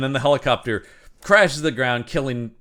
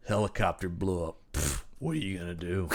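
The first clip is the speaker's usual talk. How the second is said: nonchalant shrug; 6 semitones lower, 10 dB quieter than usual. Retold or imitated. Hero's shrugging quote, quieter.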